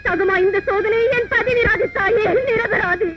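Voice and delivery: grieving wife pleading that her husband is innocent; tearful plea. Acted. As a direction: sob the question out to the goddess. Pleading to goddess in tears.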